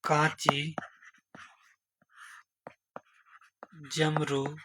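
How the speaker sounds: hushed recital of names; whispered list. Shown as a demonstration. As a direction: whisper each name as if to memorize. Teacher listing tributaries.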